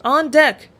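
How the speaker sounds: loud, high call down to the deck. A narrator's reading. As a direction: shout it up from the rigging. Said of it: "I called".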